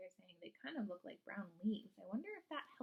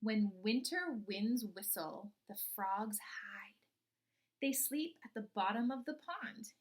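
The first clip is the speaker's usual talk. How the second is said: put-on slow, expressive read-aloud for young children; storybook reading; 4 dB louder, slower than usual. Teacher reading a frog book to her class, storybook voice.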